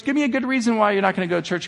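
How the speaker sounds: a hint of a mom demanding reasons; lightly voiced mother. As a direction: rattle it off as the insistent mother. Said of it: "She goes".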